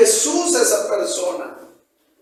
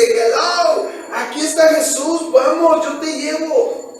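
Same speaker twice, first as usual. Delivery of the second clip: higher, eager invitation to come along; bubbling over, pulling a friend to Jesus; super excited; 4 semitones higher than usual. Acted. Felipe calling his friend, super excited. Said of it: "súper emocionado y le dice".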